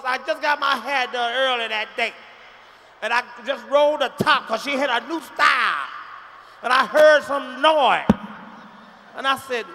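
blasting through the story again; loud retelling. Acted.

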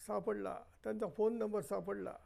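light relief as the number turns up; mildly excited old man finding the phone number; pleased discovery. Acted. Elder finds the number.

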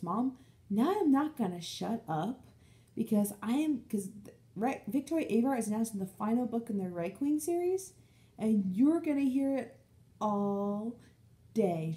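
mock-serious excited announcement; excited warning. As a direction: warn mom playfully she'll hear it all day. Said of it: "or I messaged her saying this".

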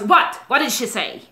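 aggressive and unpleasant. Retold or imitated. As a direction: imitate him demanding answers aggressively. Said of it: "aggressively and quite unpleasantly".

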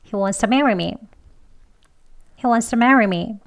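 He wants to marry me with wants to blurred; weaker wants to. Shown as a demonstration. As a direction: soften wants to, lean on marry. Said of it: "더 약하게 발음합니다".

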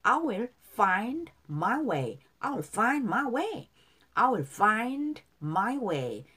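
very slow, stretched, sustained words; repeat-after-me model. Shown as a demonstration. Teacher leads repetition of the lyrics, slow and drawn out. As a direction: hold each word long for learners to echo. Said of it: "자, 따라할게요".

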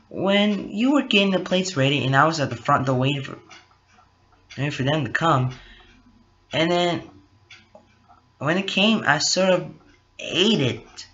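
sheepish Carol voice. Acted. Carol confesses eating Cole's food.

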